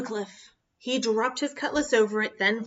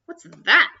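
puzzled surprise; 9 dB louder than usual. Acted. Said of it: "thought the captain".

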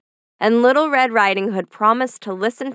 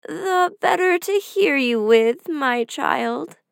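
disguised wolf; 5 semitones higher, slower than usual. Acted. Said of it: "was the reply".

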